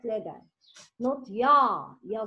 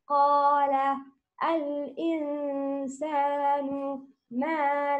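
Quran recitation. Acted. Teacher recites the verses for a student in melodic chant. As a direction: chant the verses with long held vowels.

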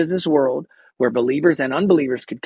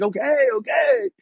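higher eager okay; 12 semitones higher than usual. Retold or imitated. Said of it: "He's like".

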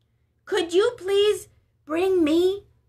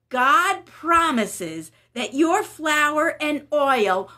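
reassuring Elijah; 6 dB louder, slower than usual. Acted. Elijah promises a miracle.

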